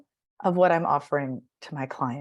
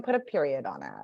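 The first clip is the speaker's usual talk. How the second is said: softer, lower, fading into creak; pooped-out fry; 4 semitones lower, 4 dB quieter than usual. Shown as a demonstration. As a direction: let it die at the end. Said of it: "not gonna put a period on it by going".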